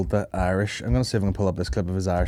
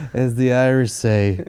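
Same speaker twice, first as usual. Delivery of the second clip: drawn-out parody at usual pitch; mock slow imitation; slower than usual. Co-host repeating the actor's line, slow mock imitation. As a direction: stretch the words out slowly. Mocking the clip just played.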